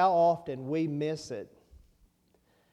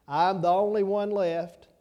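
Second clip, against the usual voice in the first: mocking self-pitying whine, louder and a bit higher; pity party whine; 4 semitones higher, 6 dB louder than usual. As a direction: mimic him feeling sorry for himself. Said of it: "Sound like he was having a pity party".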